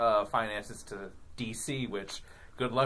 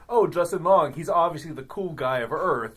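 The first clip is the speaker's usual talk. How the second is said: alien voice; 5 semitones higher, 5 dB louder than usual. Retold or imitated. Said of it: "something aliens would do".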